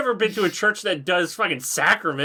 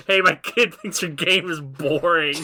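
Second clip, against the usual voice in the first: pushy CEO; 3 dB louder than usual. Retold or imitated. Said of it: "the C E O calling up his dev team".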